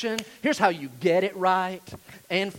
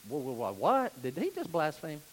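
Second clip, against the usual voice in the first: lowered, softer mock alarm; imagined shocked listener; 3 semitones lower, 3 dB quieter than usual. Listener questioning the preacher's claim, mock shocked. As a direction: play a taken-aback churchgoer under the breath. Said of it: "And you're like".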